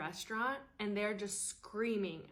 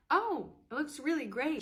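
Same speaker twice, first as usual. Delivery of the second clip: higher, louder sing-song compliment; sweet fake praise; 6 semitones higher, 5 dB louder than usual. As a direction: gush over the rearranged room. Host mimicked, sweet fake praise.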